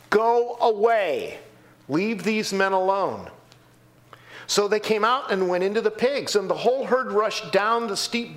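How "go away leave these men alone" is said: commanding Jesus. Acted.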